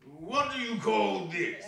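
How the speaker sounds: laughing question. Acted. Women mocking over stolen goods.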